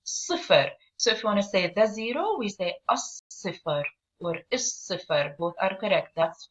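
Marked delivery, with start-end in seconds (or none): 0.0-0.7 "صفر" with a heavy, stressed S; "صفر", not with a regular light S; stressed hard S. Shown as a demonstration. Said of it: "We have to stress on it". 2.9-5.4 "الصفر or الصفر" with a doubled, heavy S; article's L melts into a stressed S in "الصفر or الصفر"; stressed hard S. Shown as a demonstration. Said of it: "We have to stress on it".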